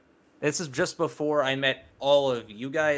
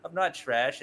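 mock defensive gamer; 4 semitones higher, 5 dB louder, slower than usual. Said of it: "He's like".

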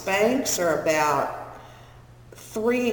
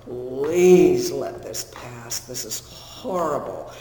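moaning plea; 3 semitones lower, 4 dB louder, slower than usual. Retold or imitated. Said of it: "going like this and going".

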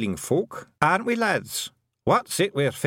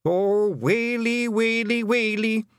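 high, slow, drawn-out Scots wail; keen it out on one high note; wailing lament; 12 semitones higher, 4 dB louder, slower than usual. A narrator's reading. Helmet twiddler hearing the bad news, high wailing. Blue man wails at terrible news.

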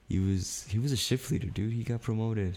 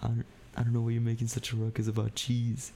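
retold exasperated reply; 4 semitones higher than usual. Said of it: "I'm like".

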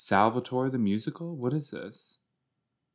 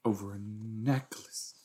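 breathy whisper to herself; voiceless aside; 10 dB quieter than usual. Real, not acted. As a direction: hush it like a secret. Reacting to a scene, whispering.

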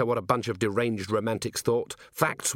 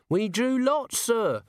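higher, hesitant, nervous little corporal; raised wheedling voice, full of ums; Nobby; 13 semitones higher, slower than usual. A narrator's reading. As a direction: stammer it out like a nervous underling. Nobby answers.

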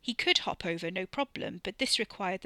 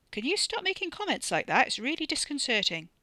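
higher, louder exasperated protest; irritated complaint; 6 semitones higher, 4 dB louder than usual. Acted. Uneasy man to his needling companion, irritated complaint. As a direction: tell them off, exasperated.

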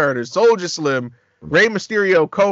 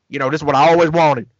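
quick, lightly voiced rapper's thanks; Silk the Shocker voice; 3 semitones lower, faster than usual. Host retelling Silk's reply, a light quick impression. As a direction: rattle it off fast in his voice. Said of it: "I gotta do this in the Silk the Shocker voice".

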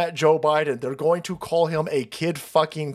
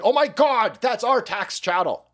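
mock outraged Democrats; 5 semitones higher than usual. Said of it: "lefty criminals like".

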